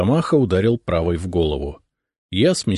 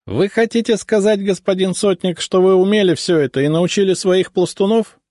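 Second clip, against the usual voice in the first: high-pitched astonished question; surprised; 12 semitones higher, 4 dB louder than usual. A narrator's reading. Ensign questioning the sotnik about his training, surprised. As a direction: ask in raised, incredulous surprise. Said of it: "с удивлением спросил прапорщик".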